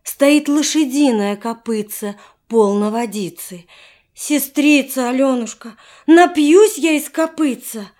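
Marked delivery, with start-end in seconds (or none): 4.1-7.9 put-on higher, pleading child's voice; little boy voice. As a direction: beg like a thirsty little boy. Little brother begs for water.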